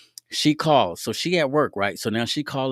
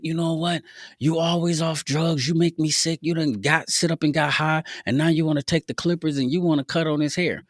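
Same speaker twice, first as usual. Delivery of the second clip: higher-pitched mock scolding; imitating mad girlfriend; 7 semitones higher than usual. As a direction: act out a fed-up girlfriend's rant. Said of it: "She super duper mad".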